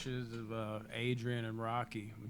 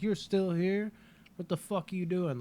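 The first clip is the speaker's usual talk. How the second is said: higher-pitched mock irritation; dismissive annoyance; 6 semitones higher, 3 dB louder than usual. Voicing Tommy brushing off someone bothering him, dismissive annoyance. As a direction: act as if pestered by a fly. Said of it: "Like he's a fly or something".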